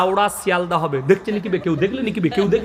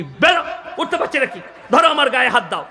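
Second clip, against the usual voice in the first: rude husband; 5 semitones higher, faster than usual. Retold or imitated. Husband snapping at injured wife.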